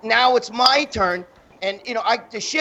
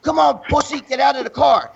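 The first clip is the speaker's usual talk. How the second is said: higher-pitched imitation of an aggressor; acted taunting challenge; 3 semitones higher than usual. Woman challenging him at his car, imitated taunt. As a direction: goad them into a fight, retold. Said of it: "she's telling me".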